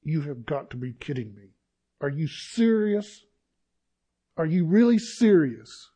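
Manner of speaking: outraged, you can't be serious; mock-outraged disbelief at God; incredulous. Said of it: "I'm like".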